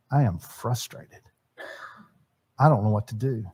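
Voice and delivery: quietly at a loss; frustrated. Retold or imitated. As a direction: imitate a stuck, frustrated dad. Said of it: "in a tone of voice that says".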